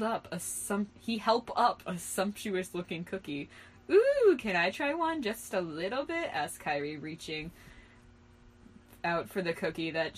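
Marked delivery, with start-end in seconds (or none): 3.9-6.3 high, loud wheedling; eager pleading. Acted. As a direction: beg eagerly in a raised pitch. Character begs eagerly for a cookie.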